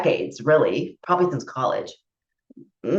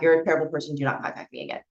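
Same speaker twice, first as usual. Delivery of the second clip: quiet cold rebuke; 7 dB quieter, much faster than usual. Retold or imitated. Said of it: "But I wrote back".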